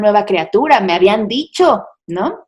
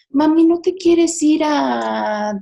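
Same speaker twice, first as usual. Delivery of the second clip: put-on gentle child's hint; 6 semitones higher, much slower than usual. Son gently calms his mother.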